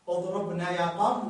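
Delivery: اضربنا said "idrubun" with short u, joined to يا قوم; connected form, waw dropped. Shown as a demonstration. Teacher shows connected reading, waw shortened away. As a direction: run اضربنا straight on without a long waw. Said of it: "في حالة الوصل".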